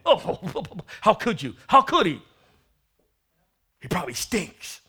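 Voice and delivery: laughing scornful brother; half-laughing sneer; mocking laugh. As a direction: scoff at the returning sinner. Mocking the angry son.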